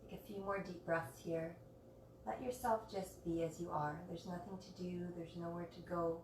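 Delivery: soft, unhurried calming voice with long pauses; guided meditation. Real, not acted. Yoga teacher guiding students to rest in Shavasana, soft meditation voice. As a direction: gently settle listeners into stillness, phrase by phrase. Leads the class into stillness.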